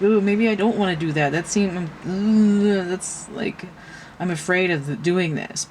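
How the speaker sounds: jittery second thoughts that break off; mock nervous backing off. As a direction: act out getting cold feet. Voicing a scared second thought.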